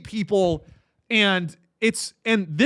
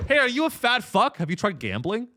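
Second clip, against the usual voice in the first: a hint of a pushy ad announcer, higher; ad pitch voice; 5 semitones higher than usual. TV ad interrupting the broadcast, a light pushy announcer voice. Mimicking a TV ad again.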